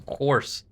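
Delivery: "Horse" with a rolled, rough H. Shown as a demonstration. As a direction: exaggerate the roll in the H of "Horse". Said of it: "I put a lot of roll into that H".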